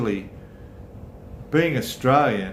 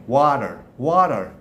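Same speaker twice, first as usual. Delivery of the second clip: Canadian accent; 2 semitones higher, 4 dB louder than usual. Shown as a demonstration. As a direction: say "water" like a Canadian, "wah-der". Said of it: "And then Canadians say it different again".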